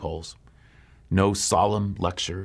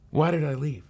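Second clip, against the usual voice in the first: the question flung out higher, pained; anguished cry; 7 semitones higher than usual. Acted. Runaway girl to herself, pained higher cry.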